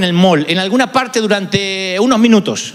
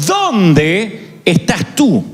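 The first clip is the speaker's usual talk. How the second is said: slow call; much slower than usual. Retold or imitated. God calling Adam, slowed.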